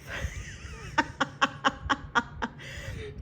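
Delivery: high airy giggle rising at the end; breathy laugh. Real, not acted. Vlogger laughing at her own breathlessness, airy giggle.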